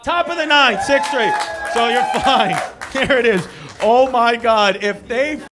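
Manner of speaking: loud, high, worked-up rant; excited. Real, not acted. Comic worked up over a close Mets score. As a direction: rise to a frantic pitch.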